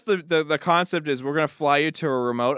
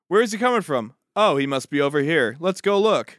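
wooden bad acting. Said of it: "His delivery was terrible".

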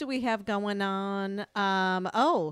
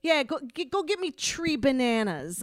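put-on high-pitched thick Chicago accent; Chicago brother-in-law; 5 semitones higher than usual. Imitating ex-brother-in-law, exaggerated Chicago accent. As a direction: say 'tree' for three, Chicago style. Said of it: "talks kinda, like, to Chicago".

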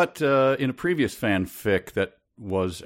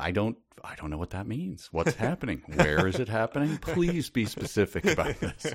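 baffled; 3 semitones higher, 4 dB quieter than usual. Retold or imitated. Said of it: "And I just thought".

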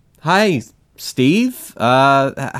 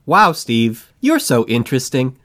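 sarcastic; 3 semitones lower than usual. Acted. Echoing the mock compliment.

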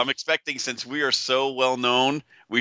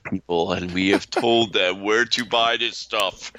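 mock proclamation; 2 semitones lower than usual. Mock grand proclamation to listeners.

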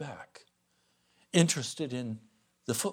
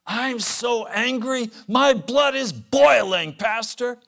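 higher, louder, slow seething complaint; angry caller; 9 semitones higher, 10 dB louder, slower than usual. Retold or imitated. Angry man on the phone complaining to his pastor, loud and seething. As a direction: play the furious caller boiling over. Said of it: "A man said to me".

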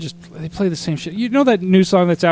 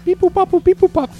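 high robotic beeping; toy robot voice; 14 semitones higher than usual. Pretend. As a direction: beep like a little toy robot. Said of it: "I'll pause the recording".

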